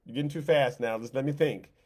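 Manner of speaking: lightly voiced frantic God; flustered God. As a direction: play God scrambling to keep up. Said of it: "like God was making it up".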